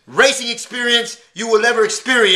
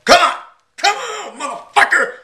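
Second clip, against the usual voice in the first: hype yell; 9 semitones higher than usual. Acted. Hyped opening yell before the rant.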